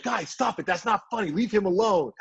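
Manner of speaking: high pleading voice; whiny mock plea. Chandler Parsons begging the bench to stop taunting, in a high whiny plea. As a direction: beg the bench to quit, hammed-up. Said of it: "He was like".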